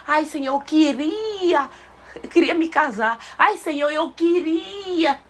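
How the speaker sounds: slow, drawn-out timid asking; hesitant wishful plea. Shown as a demonstration. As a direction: beg shyly as if not daring to ask. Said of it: "Tu queria ou tu quer?".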